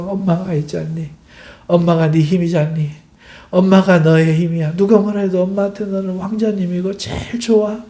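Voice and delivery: gentle, reassuring words with an embrace; comforting mother. Acted. Mother consoling her hurt child, soothing. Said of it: "안고 위로하고 하잖아요".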